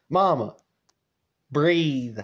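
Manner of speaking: spaced-out, deliberate coaxing; imitated son's firm, measured reassurance; calming instruction. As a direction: talk an upset mother down, pausing between phrases. Dad firmly calms his mother down.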